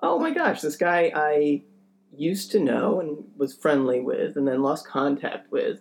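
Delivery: lightly voiced New York reunion excitement; mock delight. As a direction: gush about the reunion. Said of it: "where it's like".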